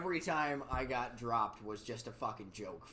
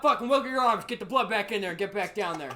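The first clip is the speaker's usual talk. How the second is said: barked orders, much louder and higher; angry dad yelling; 7 semitones higher, 10 dB louder than usual. Retold or imitated. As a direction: yell at the kids like a fed-up father. Dad yelling at kids planking.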